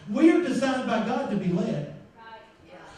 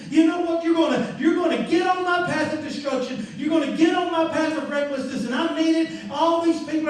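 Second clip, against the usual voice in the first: angry shouting; 3 semitones higher than usual. Acted. Balaam yelling at his donkey.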